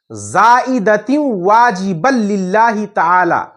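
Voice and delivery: slow, measured Arabic recitation; slow prayer recitation; recited intention. Shown as a demonstration. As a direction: recite it slowly, word by word, for the class. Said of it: "इस तरह करेंगे".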